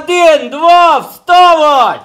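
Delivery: loud, high barked commands; drill sergeant shout. Acted. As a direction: roar them awake like a sergeant. Angel waking shepherds like drill sergeant.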